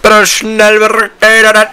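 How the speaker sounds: high, loud, frantic begging; pleading. Real, not acted. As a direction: squeal out a desperate please. Begging the game to go faster. (flehend und aufgeregt)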